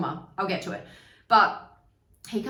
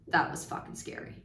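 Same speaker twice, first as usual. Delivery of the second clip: whispered fright; 3 semitones lower, 6 dB quieter than usual. Retold or imitated. Retold scared reaction on ski slope.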